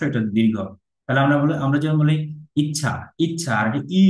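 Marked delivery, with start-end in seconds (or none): 2.6-3.5 ইচ্ছা with a quick, short first vowel. Shown as a demonstration. Teacher contrasting short and long vowels, ইচ্ছা with short i. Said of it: "এটা হচ্ছে হ্রস্ব". 4.0-4.0 ই held out with some pressure; long i. Shown as a demonstration. Teacher contrasting short and long vowels, long ই. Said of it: "এটাকে একটু দীর্ঘ করে".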